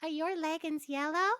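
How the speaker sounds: "leggings" said as "leggins", G dropped; high, with "leggings" losing its G. Retold or imitated. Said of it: "she goes".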